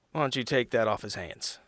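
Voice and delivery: ordinary talk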